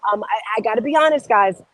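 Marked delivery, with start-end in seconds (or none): none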